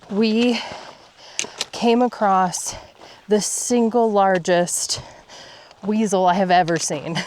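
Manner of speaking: breathless hushed whisper. Real, not acted. Hushed awe at big animal.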